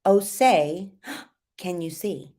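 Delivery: breath between "Oh, say," and "can you see?"; short phrase, breath, short phrase; phrased with a breath. Shown as a demonstration. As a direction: take a quick breath after "say". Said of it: "Cut them up, breath".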